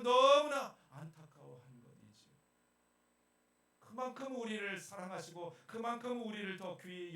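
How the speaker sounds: loud, rising fervent sermon; preaching. Acted. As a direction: preach it with full force. Preaching at full force.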